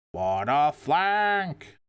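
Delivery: slow, drawn-out Yeti voice. Acted. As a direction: stretch it out like a big Yeti. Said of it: "That was my Yeti voice".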